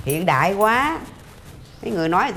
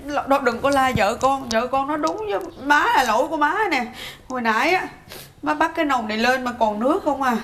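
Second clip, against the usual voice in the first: fake crying; 2 semitones higher than usual. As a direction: play the tearful martyr. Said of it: "má khóc vậy em". (giả khóc, rên rỉ nhận lỗi)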